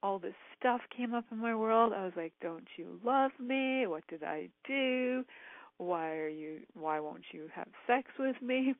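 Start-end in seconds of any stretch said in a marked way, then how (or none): 2.4-8.7 rejected plea. Retold or imitated. Wife recalling her meltdown to her husband, rejected and pleading. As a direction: act out wounded, needy questions, pitched up. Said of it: "Like, I felt rejected".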